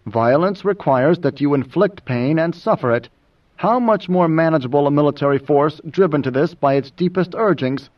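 even, unhurried explanation; mild. Acted. Moneo lectures Idaho on violence, mildly. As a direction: stay mild under his objections. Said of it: "Still mild, Mineo said".

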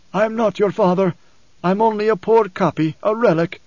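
high-pitched, strained preacher's voice; the preacher, disowning fatherhood. Acted. Preacher denies he is Leto's father, high and insistent. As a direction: voice a worn preacher, well above narration.

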